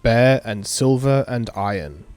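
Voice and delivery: slow, measured ritual recital; incantation reading. Acted. Player reading the mage's summoning spell aloud, measured incantation. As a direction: recite the spell in deliberate phrases. Reads a summoning chant from the game.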